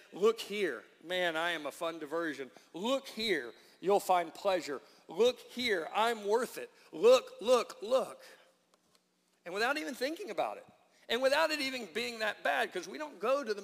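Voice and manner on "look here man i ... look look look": loud enticing hawker's call; tempting world. Retold or imitated. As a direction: lure them in like a barker, building louder. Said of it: "They say".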